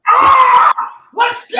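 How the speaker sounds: high, loud battle cry; fired-up yell. Real, not acted. Host itching to box late at night, fired-up yell. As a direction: bark it like you're ready to fight.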